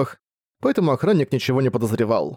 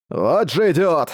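gloating; 4 semitones higher, slower than usual. Acted. Orc gloats over his victim.

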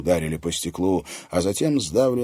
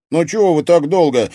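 loud, high, impatient call; impatient exclamation; 11 semitones higher, 12 dB louder than usual. A narrator's reading. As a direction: hurry them up, fed up with waiting. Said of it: "нетерпеливо воскликнул он".

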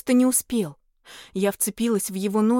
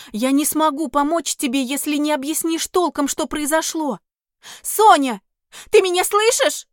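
raised, urgent questioning; 6 semitones higher, 6 dB louder than usual. Acted. Heroine asks the panicked fairy what happened, urgent raised voice. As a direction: press her to explain, anxious.

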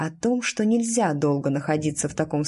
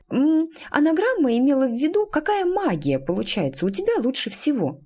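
put-on higher-pitched, well-meaning helpful girl; kindly prompting; 9 semitones higher than usual. A narrator's reading. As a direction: offer a gentle hint in a higher voice. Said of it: "доброжелательно подсказала Петулия". (доброжелательная подсказка)

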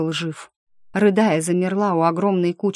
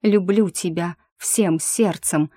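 tender repeat; slower than usual. Acted. Heroine repeating her love to the still dragon, slow and tender. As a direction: say it gently, stroking his scales. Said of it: "повторила".

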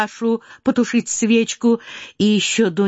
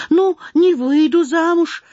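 put-on higher, indignant girl guarding what is hers; possessive protest; 8 semitones higher than usual. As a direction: defend it as if someone takes your property. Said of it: "тоном человека, у которого хотят отнять".

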